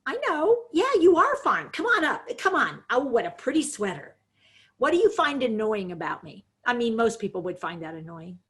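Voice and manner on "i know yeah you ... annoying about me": put-on high, louder coaxing, as if to a toddler; patronizing coaxing. Shown as a demonstration. Caregiver coaxing Rachel away in a patronizing high voice. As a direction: herd her along in a sugary voice. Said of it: "people are saying patronizing, you're talking down to her".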